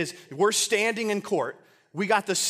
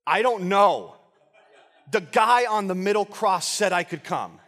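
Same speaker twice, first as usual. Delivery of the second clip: emphatic, louder plea of ignorance; bewildered answer; 4 dB louder than usual. Acted. Thief explaining to saints how he got into heaven, bewildered. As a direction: answer as if just as baffled as they are.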